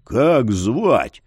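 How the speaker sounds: low hushed growl; holding back a shout. Acted. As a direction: growl it, keeping it down. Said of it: "прорычал Яр".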